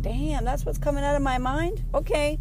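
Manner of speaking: high-pitched mock astonishment; acted jaw-drop disbelief; open-mouthed amazement. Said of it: "almost with my mouth open".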